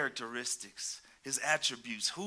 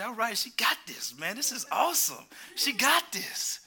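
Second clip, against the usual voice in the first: mock cheering; 6 semitones higher, 4 dB louder than usual. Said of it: "I say".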